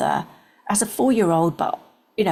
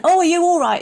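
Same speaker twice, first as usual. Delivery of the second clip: higher, louder call of concern; retold shout; 11 semitones higher, 6 dB louder, faster than usual. Father calling out to his stumbling daughter, a concerned shout. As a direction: call out to her as she stumbles. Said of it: "my father shouted out and went".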